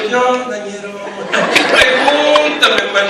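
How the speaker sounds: put-on a light Mexico City ñero accent, stretched out; Mexico City ñero slang. Showing how he learned to talk in Mexico City, light ñero accent. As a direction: drawl it slowly like a Mexico City street kid. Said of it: "Comencé a hablar como ñero".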